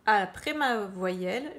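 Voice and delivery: slow down to stress the rule; teacher slows to make the point; slow explanation. Shown as a demonstration. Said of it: "je coupe ici".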